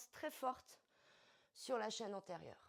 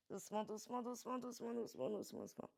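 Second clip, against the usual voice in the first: gently; 3 semitones higher, 4 dB quieter, faster than usual. Shown as a demonstration.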